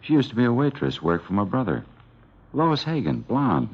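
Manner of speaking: can't wait to tell the cop; eager witness. Acted. Witness eagerly names suspect.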